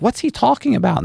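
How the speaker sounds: high-pitched confused onlooker; retold, high-voiced puzzlement; imitated bafflement. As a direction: act out someone totally lost, pitched well up. Confused attorney voiced in story.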